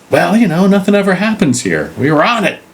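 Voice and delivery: high-pitched comic character voice; sheepish watchman excuse. Acted. Watchman explaining himself to the police, defensive. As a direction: justify yourself in a hammed-up high voice.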